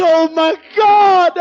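slow, loud, tearful gasp of wonder; overwhelmed with awe, voice cracking; astonished cry. Retold or imitated. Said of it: "He said".

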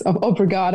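obrigado said the Portuguese way, lightly. Shown as a demonstration. Thanking the hosts in Portuguese, lightly voiced. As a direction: say obrigado as a local in Portugal would. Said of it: "as we'd say here in Portugal".

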